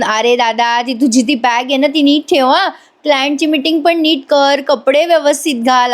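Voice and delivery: teasing call after a brother, pitch lifting; lightly acted sing-out teasing; mock teasing. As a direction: rib him with mock-helpful reminders. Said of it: "त्याला चिडवतात ओरडून".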